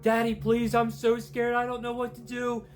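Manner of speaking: high, loud frightened begging; scared pleading. Acted. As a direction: plead like a terrified child. Scared daughter begging on phone.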